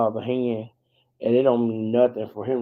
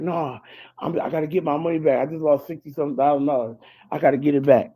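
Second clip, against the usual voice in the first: fast, higher frantic pleading; panicked; 5 semitones higher, 3 dB louder, faster than usual. Retold or imitated. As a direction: rush it like he's desperate. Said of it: "and he's like".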